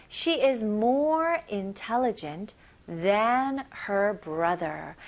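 drawn out, phrase by phrase; very slow chunked reading. Shown as a demonstration. Teacher slowly repeats the second sentence for learners. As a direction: stretch each phrase out slowly. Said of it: "두 번째 문장 다시 한번 볼게요".

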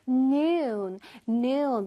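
"noon" pushed from the belly, long vowel; forceful from the belly. Shown as a demonstration. Teacher leads pupils repeating noon, forceful long vowel. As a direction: push out "noon" with air. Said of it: "힘을 줘서 배에서 한번 나와보게".

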